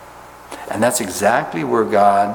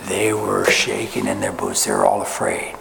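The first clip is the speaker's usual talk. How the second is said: mock trembling fear; 14 semitones lower than usual. After laugh, mock-fearful brothers.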